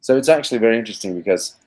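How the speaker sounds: put-on unhurried, measured British accent with a hushed start; the speaker's British accent. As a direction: speak as the thoughtful Englishman in a British accent. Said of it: "talking with this accent".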